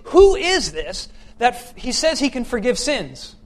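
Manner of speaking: incredulous Pharisees. Acted. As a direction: lean hard on the question in disbelief. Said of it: "see him and they say".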